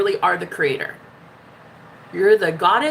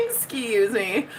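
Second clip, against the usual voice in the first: mock affront; 4 dB quieter, much slower than usual. Host feigning offence at a viewer, slow "Excuse me". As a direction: EXCUSE ME drawn out slowly, rising at the end.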